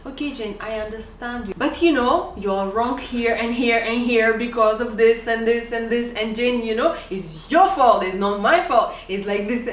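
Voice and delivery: mock lawyer-style bombarding with points; arguing husband. Husband arguing her down point by point, mock-heated. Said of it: "He'll say".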